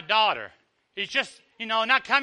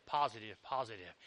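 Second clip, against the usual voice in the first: fading echo; 12 semitones lower, 15 dB quieter than usual. Shown as a demonstration. Preacher's fading emphatic echo.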